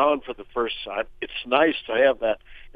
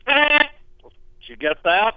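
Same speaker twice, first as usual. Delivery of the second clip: lip buzz demo; 10 semitones higher, 5 dB louder than usual. Shown as a demonstration. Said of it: "make a buzzing sound".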